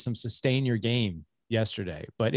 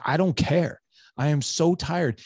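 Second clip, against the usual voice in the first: raised, louder fed-up dad, dragging out the tired line; exasperated outburst; 7 semitones higher, 4 dB louder than usual. Retold or imitated. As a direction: snap back at your son, worn out. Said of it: "I'm like".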